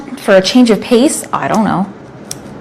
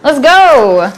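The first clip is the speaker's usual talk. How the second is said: raised excited hype call; hoarse sleep deprived hype; 5 semitones higher, slower than usual. Real, not acted. Hype train announcement.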